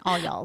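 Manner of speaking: "y'alls" ending on a clear S; "All y'alls" with the added S. Shown as a demonstration. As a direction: stress the final S in "all y'alls". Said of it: "You have to put the S at the end".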